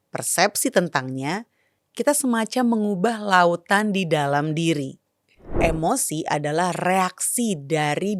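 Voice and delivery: calm, thoughtful podcast cold open; reflective intro reading. Acted. Reflective intro read before the show.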